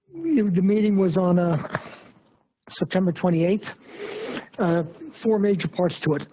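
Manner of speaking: losing voice, hoarse and strained. Real, not acted. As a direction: voice wearing thin and rough. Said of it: "I'm losing my voice".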